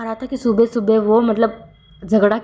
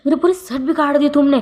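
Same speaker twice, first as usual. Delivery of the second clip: raised pitch, mock angry boss shouting; angry yell; 6 semitones higher than usual. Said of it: "वो इतना चिल्ला के कहता है".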